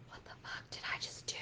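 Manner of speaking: fast, hushed whisper of regret; breathless whispered what-have-I-done; panicked whisper. Retold or imitated. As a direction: whisper it in sudden dread. Client after hanging up.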